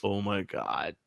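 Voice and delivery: low, hushed 'Oh my God'; appalled father. Retold or imitated. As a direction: imitate a stunned dad under his breath. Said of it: "my father was just looking down, going".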